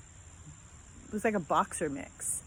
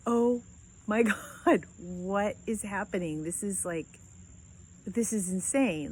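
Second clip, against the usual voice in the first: astonished disbelief. Retold or imitated. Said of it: "And I was like".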